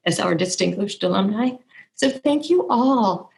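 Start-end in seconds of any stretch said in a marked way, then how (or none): 1.9-3.3 teary thanks. Real, not acted. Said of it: "I'm sorry I get so emotional".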